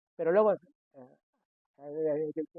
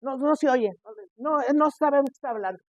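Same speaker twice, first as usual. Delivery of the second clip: higher, louder parent call; can't hear you; 7 semitones higher, 4 dB louder than usual. Retold or imitated. Parents answering a mumbling child, loud. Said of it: "el niño dice".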